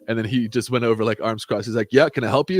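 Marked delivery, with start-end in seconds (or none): 1.9-2.6 higher, louder mock-friendly challenge; cocky manager. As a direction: greet him like a tough guy. Manager confronting customer, arms crossed.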